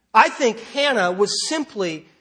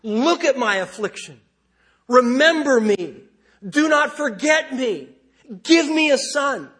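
barked pleas; 3 semitones higher than usual. Retold or imitated. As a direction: bark the requests at God like urgent demands. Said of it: "she almost literally barks her requests".

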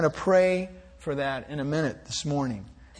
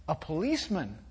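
hushed, softer little voice; child's whisper; 3 semitones lower, 8 dB quieter, faster than usual. A narrator's reading. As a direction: whisper it like a secret. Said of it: "whispered the child".

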